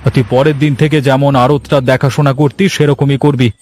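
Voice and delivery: an officer admitting his mistake; police officer. Acted.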